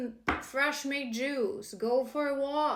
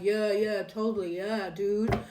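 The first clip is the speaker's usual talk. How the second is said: louder, breezy yeah dude; casual bro brush-off; 2 semitones lower, 5 dB louder than usual. Retold or imitated. Mimicking a buddy over beer, loud breezy brush-off. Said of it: "instead of saying, like".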